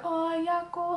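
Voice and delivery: hamming up pain over a paper cut; a friend mocks Ivorians' drama over a paper cut; dramatic Ivorian wail. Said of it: "they're so dramatic about it".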